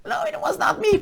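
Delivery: high shouted mock denial; Johnny denies the fart, a high indignant shout. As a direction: yell it out like you got caught. Denying the fart in a room.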